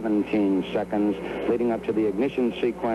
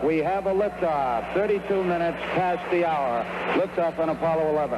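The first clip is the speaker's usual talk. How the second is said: excited; 6 semitones higher than usual. Real, not acted. Commentator calls the liftoff.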